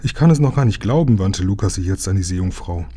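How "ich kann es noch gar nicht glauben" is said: amazed. A narrator's reading. Astonished rescue survivor.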